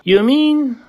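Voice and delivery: high, breathless astonishment; gasping surprise. A narrator's reading. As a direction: gasp it out in wonder. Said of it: "Horton gasped".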